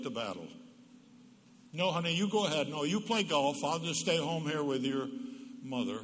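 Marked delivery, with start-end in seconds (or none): 1.7-6.0 passive-aggressive spouse. Retold or imitated. Spouse needling partner before golf, mock sweet. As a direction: sound generous but twist the knife. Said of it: "That's what we call a spit in your soup".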